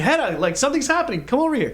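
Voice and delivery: high-pitched mock call; half-voiced plea for attention; retold scream. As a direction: urgently beckon a friend, without full volume. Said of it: "I'm trying to scream".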